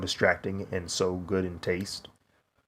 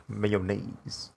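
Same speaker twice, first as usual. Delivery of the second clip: deadpan imitation; 7 dB quieter than usual. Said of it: "That's how he said it".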